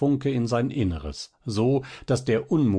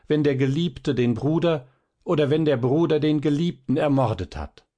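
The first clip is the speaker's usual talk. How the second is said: higher and louder desperate plea; a sister begging the fighters, voice raised high and loud; sobbing loud cry; 6 semitones higher, 4 dB louder than usual. A narrator's reading. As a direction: cry out to stop the two duelists. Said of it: "Schluchzend rief sie laut".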